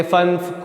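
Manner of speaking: फन्फ with a short "uh" vowel; common mispronunciation. Shown as a demonstration. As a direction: quote फन्फ wrongly as "funf", like English "fun". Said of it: "लेकिन ये नहीं है".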